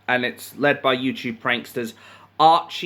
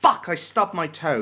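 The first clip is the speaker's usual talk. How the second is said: high, loud mock curse easing off; mock frustration; 8 semitones higher, 4 dB louder than usual. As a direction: act out a stubbed-toe outburst. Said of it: "Frustration is like".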